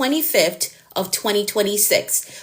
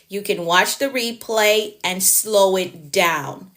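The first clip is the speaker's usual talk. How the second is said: slow explanation; slower than usual. Shown as a demonstration. Spelling out advice to confused viewer.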